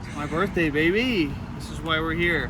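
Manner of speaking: bragging about his birthday; excited. Real, not acted.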